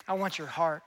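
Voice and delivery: low, soft, intimate plea; tender appeal. Acted. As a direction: gently voice Jesus's personal appeal. Jesus repeats his personal appeal.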